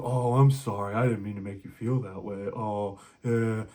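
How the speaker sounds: a hint of a meek sorry guy; mock apologetic man. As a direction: imitate a pushover boyfriend caving in. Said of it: "Men go".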